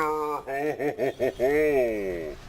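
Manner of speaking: hearty caster laugh. Real, not acted.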